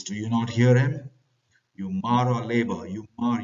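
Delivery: angry bosun. Acted. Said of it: "Bosun gets angry and he says".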